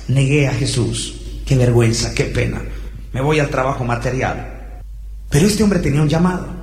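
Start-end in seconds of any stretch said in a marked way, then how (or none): 0.1-4.8 low, subdued self-reproach; acted dejection, pitched low; sad, ashamed. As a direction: voice a remorseful man giving up on himself. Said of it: "Estaba tan triste, no se podía perdonar".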